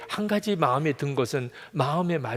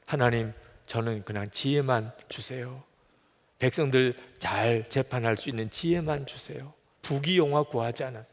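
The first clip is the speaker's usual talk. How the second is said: lightly voiced Solomon, slightly lowered; humble prayer; 3 semitones lower, 4 dB quieter than usual. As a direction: ask modestly in a subdued prayer voice. Solomon's humble request to God. (낮추어 겸손하게 구하는 기도)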